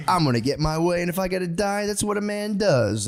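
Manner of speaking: rising, slowing macho boast. Retold or imitated. Quoting fifties essay writers in a swaggering macho voice. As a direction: puff up like a man ready to die. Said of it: "they're like".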